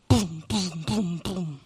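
mock door thuds fading; door slam sounds. Doors shutting one after another.

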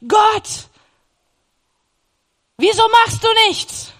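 loud, high desperate plea; retold desperate plea; crying out to God. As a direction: shout your plea up to God. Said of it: "ich dachte".

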